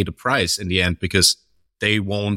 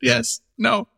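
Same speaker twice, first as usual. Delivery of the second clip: much higher flustered mock stammer; nervous stammer. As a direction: trip over your words in a panic. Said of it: "he was so nervous".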